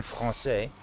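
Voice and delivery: FRANÇAIS with a nasal vowel, no N; nasalized A. Shown as a demonstration. Quoting a creator's tip, français with nasalized A. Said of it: "it's a nasalized A".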